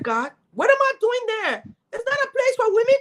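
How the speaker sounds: despairing plea to God. Retold or imitated. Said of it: "I was crying".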